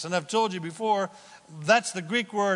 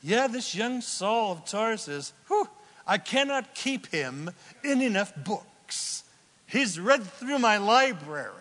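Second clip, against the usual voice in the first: a hint of an exasperated teacher, higher pitched; lightly voiced rabbi; 4 semitones higher than usual. Preacher quoting a rabbi about young Saul, lightly voiced role. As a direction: lightly act out a rabbi marvelling at his student. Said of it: "mentionings by the great rabbi is".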